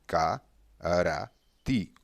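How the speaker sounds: Karati said slowly with a drawn-out first a; careful demo reading; model pronunciation. Shown as a demonstration. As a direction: read Karati slowly like a teacher. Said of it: "dizemos Karati".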